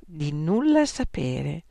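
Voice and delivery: slow, calm and unruffled; slow serene reply to the examiner. Acted. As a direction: say it with serene certainty. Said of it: "con grande serenità".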